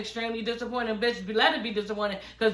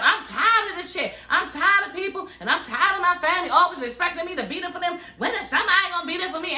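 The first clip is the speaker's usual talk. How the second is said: imitating a fed-up rant, higher and rushed; mock tirade, pitched up and tumbling out; fed-up outburst; 6 semitones higher, faster than usual. Host retells Portia getting up from the table, imitated fed-up rant. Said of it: "just kirking out".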